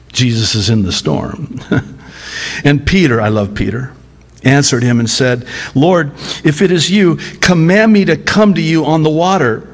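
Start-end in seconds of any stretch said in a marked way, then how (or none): 5.7-9.7 eager call. Acted. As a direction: call out boldly across the water. Peter calls to Jesus.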